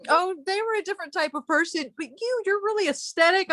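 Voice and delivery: high, quoting voice; imitating Bob. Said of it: "Bob literally today told me".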